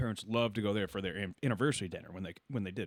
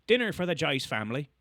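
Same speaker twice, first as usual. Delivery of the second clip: put-on raised, louder Irish accent; Irish host; 5 semitones higher, 4 dB louder than usual. Irish host seating the family, calling out in accent. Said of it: "this guy's straight from Ireland".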